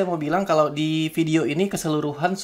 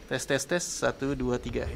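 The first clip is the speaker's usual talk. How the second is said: tes suara lewat mikrofon belakang; tes mic belakang; 4 dB quieter than usual. Shown as a demonstration. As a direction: hitung untuk uji mic belakang. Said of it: "ini mic belakangnya". (uji mikrofon belakang)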